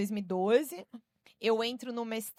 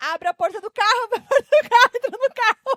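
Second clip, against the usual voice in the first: very high, very loud, shrill, frantic panicked yelling; 13 semitones higher, 13 dB louder than usual. Retelling running from a loose dog, shouting to the driver: retelling own panicked shout. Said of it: "correndo e gritando pro motorista".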